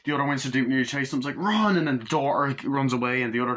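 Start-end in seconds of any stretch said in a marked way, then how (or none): 1.4-1.8 high, loud urgent yell; mock shout. Reviewer voices the daughter yelling to run, high and loud. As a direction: holler it like a panicked kid.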